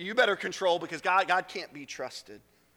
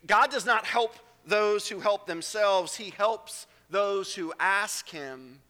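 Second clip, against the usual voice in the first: slow, deliberate, each word weighed; preacher stating the truth slowly; slow emphatic; 3 semitones higher, 4 dB louder, much slower than usual. Shown as a demonstration. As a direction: lay it down slowly. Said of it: "the truth today is this".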